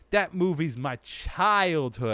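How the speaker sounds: slow, drawn-out whine; whiny upset fan. Pretend. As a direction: plead it slowly like a hurt fan.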